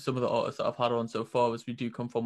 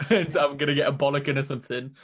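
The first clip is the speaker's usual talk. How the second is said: laughing; 4 dB louder than usual. Real, not acted. Laughing while retelling a worry.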